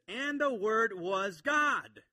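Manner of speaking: loud, high, drawn-out verse; emphatic preaching. Real, not acted. Preacher quotes the climax of the verse, loudly proclaiming. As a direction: proclaim it word by word.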